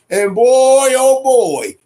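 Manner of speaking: loud, thrilled burst of disbelief; excited exclamation. Real, not acted. Hyped vlogger cheering Bivol's win, loud and thrilled. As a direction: belt it out like a fan watching the knockout.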